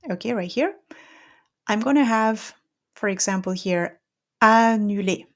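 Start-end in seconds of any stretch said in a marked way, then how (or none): 4.4-5.3 annulé with a clear N, no nasal; French word. Shown as a demonstration. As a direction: say annulé with a plain N. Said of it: "double M or a double N".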